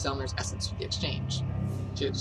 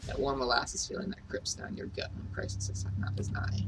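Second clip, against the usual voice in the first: put-on Irish accent. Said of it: "I probably shouldn't do this Irish accent".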